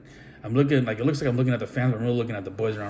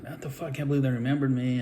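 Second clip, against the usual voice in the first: stunned disbelief; 3 semitones higher than usual. Retold or imitated. His stunned reaction backstage.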